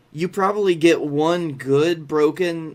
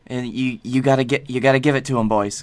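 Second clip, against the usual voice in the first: egging on; 3 semitones lower, 3 dB louder, faster than usual. Real, not acted. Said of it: "urging repeatedly, calling out".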